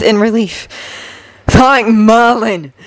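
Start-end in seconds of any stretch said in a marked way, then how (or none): 1.5-2.7 relieved exclamation. A narrator's reading. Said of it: "Sirius exclaimed".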